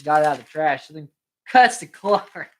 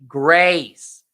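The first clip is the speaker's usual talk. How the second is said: repeating for aunt; 4 dB louder than usual. Retold or imitated.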